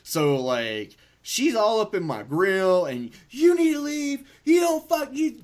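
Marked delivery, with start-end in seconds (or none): 3.3-5.4 high, loud mock yell of the head nurse. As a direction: play the bossy nurse shouting him down. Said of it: "and yelling at me".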